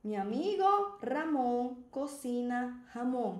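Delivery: slow, rolled R in "Ramon", H sound in "jamón"; R versus J. Shown as a demonstration. Teacher demonstrates with an example sentence, R against J. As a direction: contrast the trilled "Ramon" with breathy "jamón". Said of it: "Você está falando que a pessoa é um presunto".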